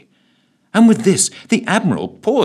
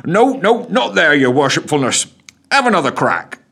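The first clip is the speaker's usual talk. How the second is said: chuckling; 8 semitones higher, 6 dB louder than usual. Acted. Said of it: "chuckled the constable".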